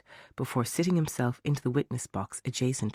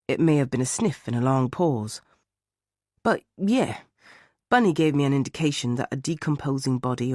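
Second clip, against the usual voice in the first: put-on northern English accent; 4 dB louder than usual. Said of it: "in a thick northern English accent".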